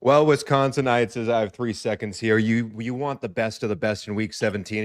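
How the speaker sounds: a light touch of a tourism commercial read, mostly his own voice; tourism ad pitch. Pretend. Pitching the Packers-Texans game to Wisconsinites, mild ad read. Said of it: "in the tone of an ad by the Wisconsin Department of Tourism".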